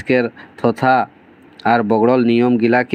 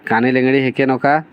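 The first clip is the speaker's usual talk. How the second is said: teasing; faster than usual. Acted. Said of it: "चुहिल करके पूछ रहे सुकून".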